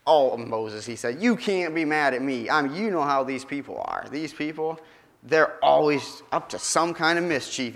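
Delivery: wriggle out of the blame; whiny excuse. Acted. Aaron making excuses to Moses.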